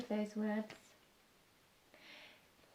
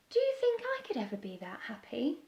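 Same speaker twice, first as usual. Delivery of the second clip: whisper; faster than usual. Acted. Beaky wistful question.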